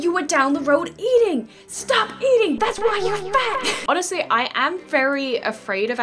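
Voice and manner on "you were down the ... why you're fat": mock Abby scolding. Voices Abby scolding Kelly.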